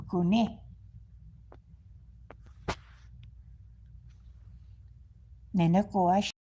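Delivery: loud firm commands to the dog; calling the dog. Real, not acted. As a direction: call him sharply so he listens.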